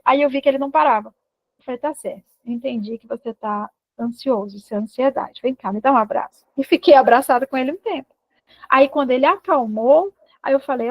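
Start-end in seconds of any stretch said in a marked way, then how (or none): 1.8-6.4 retold gentle parental comfort; soothing acceptance. Mother offering her anxious son a hug, soothingly.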